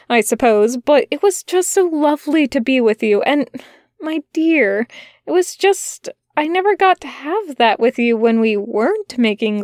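lightly voiced gentle angel, earnest and tender; Aziraphale's voice.

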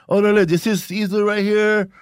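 put-on laid-back cholo accent, slow and drawn out; a light Chicano comedian voice; Mexican cholo voice. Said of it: "in a Mexican cholo voice".

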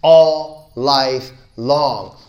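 drawn out like a lament; very slow. Shown as a demonstration. Speaker summing up life's swings, very slow. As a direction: stretch each word very slowly and loudly.

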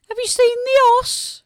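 high, loud Black Country call; broad Black Country accent. Shown as a demonstration. Musician gives a line for translation, broad Black Country accent. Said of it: "with me doing the translation".

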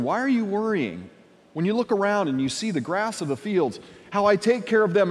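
mild rebuke. Acted. Jesus pointing to the fields, mildly rebuking. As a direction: chide them gently for doubting. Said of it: "little bit of rebuke in there".

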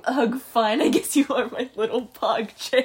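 put-on loud reluctant girl voice, laughing; begrudging "ugh, fine" with a laugh; girl from the video. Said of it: "the video of the girl saying".

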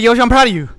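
quoted. Retold or imitated. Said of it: "He said".

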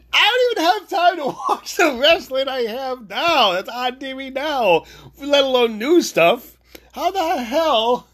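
high-pitched exasperated rant; worked up. Real, not acted. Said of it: "don't wanna get worked up".

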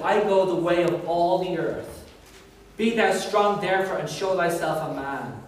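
measured, solemn Bible reading; solemn steady scripture read. Acted. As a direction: read it out like the King James. Reads scripture aloud.

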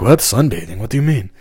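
imitating a puzzled listener, pitch lifting; quick confused questioning; baffled respondent. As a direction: ask it in mock bewilderment. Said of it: "The guy's probably like".

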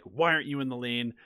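ordinary talk

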